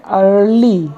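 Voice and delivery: अर्ली said ar-lee, no ee at the front; अर्ली with an ar start. Shown as a demonstration. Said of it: "इसको हम पढ़ते हैं".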